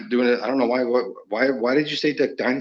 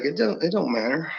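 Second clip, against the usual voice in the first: put-on Southern accent; 6 semitones higher than usual. Dismissing the worry to the others, put-on Southern accent. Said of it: "you do a real good Southern accent".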